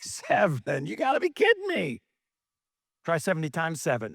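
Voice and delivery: a Jesus who can't believe the number; incredulous Jesus. Retold or imitated. Preacher voices Jesus' reply.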